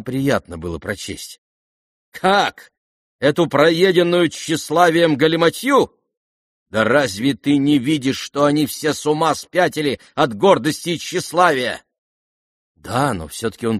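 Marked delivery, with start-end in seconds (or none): 2.1-11.8 high, loud scornful tirade; scornful outrage. Acted. Lizaveta raging at the vain letter, scornful and loud.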